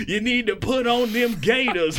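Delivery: high, drawn-out sermon cadence with gasping laugh-like breaths; fervent preacher. Acted. Pastor preaching scripture to his congregation, fervent. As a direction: stretch each phrase like a pulpit preacher.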